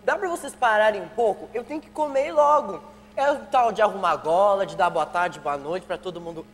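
loud complaint through food; mouth full. Acted. Son complains to parents over breakfast, mouth full. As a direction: grumble while eating. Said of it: "Não se fala de boca cheia".

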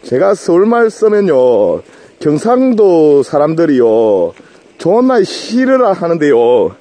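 slow, careful put-on Seoul accent over his Gyeongsang; a Gyeongsang man drawing out Seoul speech; mock Seoul accent. Broadcasting to viewers in a slow mock Seoul accent. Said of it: "예, 서울말로 방송할게요".

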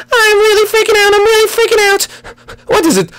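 very high frantic princess falsetto; high-pitched Peach freaking out; panicked princess. Acted.

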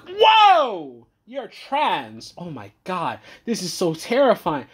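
hammed-up horror at the discovery; mock shock. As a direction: fake terrified squeal. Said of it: "your first immediate reaction is like".

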